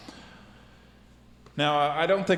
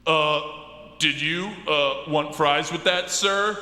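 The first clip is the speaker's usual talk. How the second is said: fast food worker voice; 5 semitones higher, slower than usual. Acted. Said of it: "maybe the voice for that guy's really a little bit more something like this".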